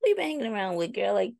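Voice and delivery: mock-scandalized friend teasing about cussing; playful high sassy tease. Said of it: "made it like a jokey joke".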